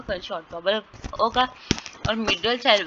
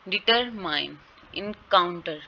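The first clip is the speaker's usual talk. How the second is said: measured teacher's "डिटरमाइन", "इनकाउंटर"; stress demonstration; slower than usual. Shown as a demonstration. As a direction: say "डिटरमाइन" and "इनकाउंटर" in clear syllables. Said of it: "इस तरह ये pronounce होंगे".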